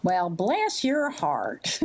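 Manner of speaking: a touch of Southern grandmother, slowly drawn out; grandmotherly Southern warmth. Real, not acted. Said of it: "You sound like one of my, my, my grandmother".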